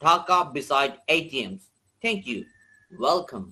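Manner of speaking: slow, careful British English; British accent. Shown as a demonstration. Teacher models a British dialogue for students, British accent. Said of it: "এটা British accent ছিল".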